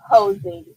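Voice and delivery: Housing drawn out as the key word; stress on Housing. Shown as a demonstration. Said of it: "Emphasis on the word housing".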